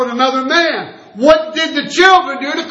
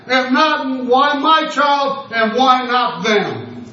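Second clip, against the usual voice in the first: slow rhetorical question; 3 dB quieter, much slower than usual. Real, not acted. Preacher's bitter rhetorical question.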